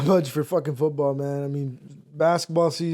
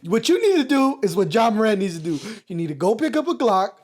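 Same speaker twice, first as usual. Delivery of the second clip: imitating rapper son; 3 semitones higher, faster than usual. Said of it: "acts like".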